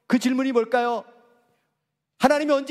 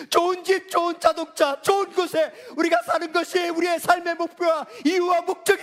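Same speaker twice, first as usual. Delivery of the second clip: raised, driving sermon call; fervent preaching; 4 semitones higher than usual. Real, not acted. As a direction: press the congregation hard. Preaching building to climax. (열정적으로 몰아치는 설교)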